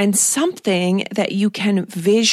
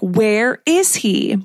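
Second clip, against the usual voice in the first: play-acted exasperated, mad, fed-up, frustrated outburst; 3 semitones higher than usual. Repeating the character's outburst again: imitating Charlotte, mad and frustrated. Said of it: "she's so mad and so frustrated".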